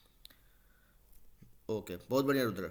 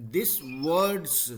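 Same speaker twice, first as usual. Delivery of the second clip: This words said louder with a stop after words; stress and pause; 3 semitones higher, 6 dB louder than usual. Shown as a demonstration. Teacher showing the student where to put force. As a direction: lean on This words, then pause. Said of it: "थोड़ा सा जोर लगाना पड़ेगा".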